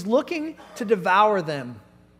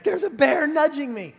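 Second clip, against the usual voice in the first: panicked insistence; 6 semitones higher than usual. Retold or imitated. Kid insisting to counselor.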